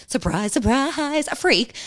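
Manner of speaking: slow, high, drawn-out sarcasm; sarcastic reveal. Real, not acted. Woman revealing how her ex turned out, sarcastic. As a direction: stretch it out with mock surprise.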